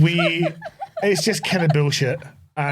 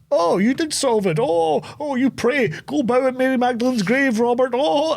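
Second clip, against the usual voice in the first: hammed-up villain calling out, pitched way up; imitated film shouting; 8 semitones higher than usual. Host mimics the arrested man in the film, high mock shouting. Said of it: "he's still shouting".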